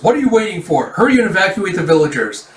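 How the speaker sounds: gritted-teeth urgency. Retold or imitated. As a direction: order them to get moving now. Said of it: "he grits his teeth and goes".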